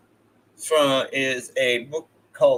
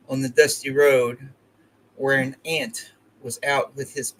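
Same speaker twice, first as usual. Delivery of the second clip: measured poetry reading, phrase by phrase; deliberate recital with spaces between phrases; poem reading. Acted. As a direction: read the poem aloud, pausing between the lines. Reads a poem aloud.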